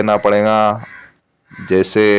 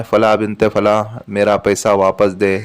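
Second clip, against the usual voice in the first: slow recited formula. Shown as a demonstration. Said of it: "आपको ये कहना है".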